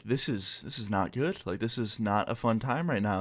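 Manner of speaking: hushed, uneasy self-talk; uneasy inner thought. Retold or imitated. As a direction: think it aloud under your voice. Uneasy private thought in front row.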